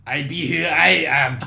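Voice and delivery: loud, slow, self-important declaration; mock rapper. Rapper answering what's your name, mock grandiose. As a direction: stretch it out as a hammed-up answer.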